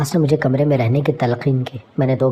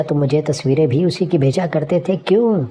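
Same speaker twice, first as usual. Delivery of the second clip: shouted question; 3 semitones higher than usual. Acted. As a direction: shout the accusation, peaking at the end. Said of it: "میں نے چلا کر پوچھا". (چیخ کر پوچھا گیا سوال)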